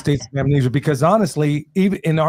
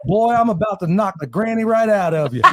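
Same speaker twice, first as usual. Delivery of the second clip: lightly voiced Southern fighter, pitched up; playful fighter's threat, a bit higher; mock Southern fighter; 4 semitones higher than usual. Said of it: "a U F C fighter getting in there".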